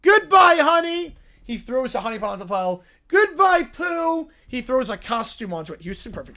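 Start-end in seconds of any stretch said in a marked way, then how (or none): 0.0-1.2 loud, high, dramatic goodbye; little bear bidding honey farewell; high cartoon bear farewell. 3.1-4.3 loud, high, dramatic goodbye; little bear bidding honey farewell; high cartoon bear farewell. Bear tosses costume.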